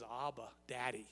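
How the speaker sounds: quiet, broken prayer to Daddy; whisper-soft begging, fading away; a tender, hushed plea; soft intimate plea. Retold or imitated. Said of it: "he says".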